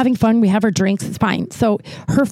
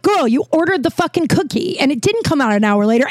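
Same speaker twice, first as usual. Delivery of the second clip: mock yell; 6 semitones higher than usual. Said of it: "I'm yelling at her".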